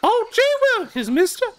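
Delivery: put-on high, slow, wide-eyed kid voice; wholesome 1950s kid. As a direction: gush it like an innocent schoolboy. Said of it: "do a great impression".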